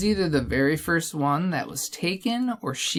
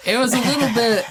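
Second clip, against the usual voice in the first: Christopher Lambert impression; 7 semitones higher, 5 dB louder, faster than usual. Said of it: "sounds like Christopher Lambert".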